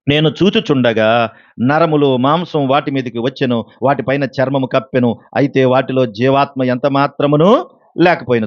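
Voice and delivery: slow, measured Bible reading; scripture reading. Acted. Preacher reads Ezekiel's verse to the congregation, slow and solemn. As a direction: read the verse slowly and solemnly.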